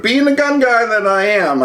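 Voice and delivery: very high, drawn-out self-teasing line; comic high aside. Real, not acted. Gun guy joking about still getting his magazines, comically high. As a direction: stretch it out high for a laugh.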